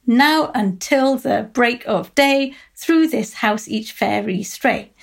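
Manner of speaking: slow, landing hard on "Now", "break", "through", "fairy"; trochaic stress. Shown as a demonstration. Lecturer showing students the trochaic beat, slow and stressed. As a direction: beat out four stresses a line, first syllables strong. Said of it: "the stress is on the first syllable".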